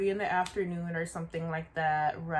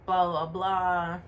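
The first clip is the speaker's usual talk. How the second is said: retold yell that trails into blah blah; mock yelling; slower than usual. Coworker yelling at the maskless customer, mock yell. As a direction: mimic the coworker yelling, half-hearted. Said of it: "So he's yelling".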